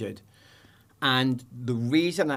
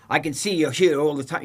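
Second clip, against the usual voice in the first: imitating a gruff border officer, louder; mock aggressive official; 3 semitones higher, 5 dB louder than usual. Retelling the airport officer, a mock aggressive demand. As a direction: play the rude passport officer, pushing. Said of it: "He's really aggressive".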